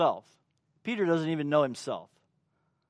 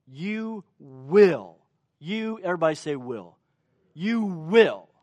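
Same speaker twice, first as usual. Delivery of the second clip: prophetic announcement. Retold or imitated. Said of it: "he makes this prophetic announcement".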